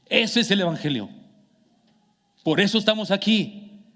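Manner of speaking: mock-shouted fervor without real volume; impassioned retelling. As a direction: press each point home as the impassioned mentor. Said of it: "gritando, voz así emocionada".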